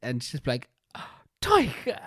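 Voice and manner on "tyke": high-pitched accusing name-call; mock shock. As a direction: imitate a sister feigning horror. Imitates sister passing the blame.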